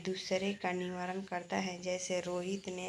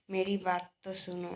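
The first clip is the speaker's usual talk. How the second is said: pleading. Shown as a demonstration. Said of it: "आग्रह या मुनहार के अर्थ में".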